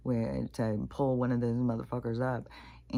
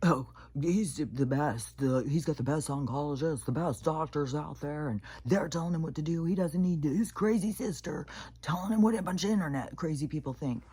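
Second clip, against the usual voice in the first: raised, mocking voice of the brother, ending in a whisper; 4 semitones higher than usual. Mimicking her dismissive brother who calls her crazy, in a raised mocking voice. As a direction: sneer his words back like a know-it-all. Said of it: "because he's like".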